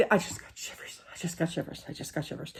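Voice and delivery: hushed, breathless whisper, trailing off; I just got shivers, whispered and fading. Real, not acted. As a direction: whisper it as if the chill comes back. Repeating while recalling ghost.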